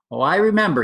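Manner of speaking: lightly voiced excited young elephant; eager baby elephant. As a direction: play the curious baby elephant.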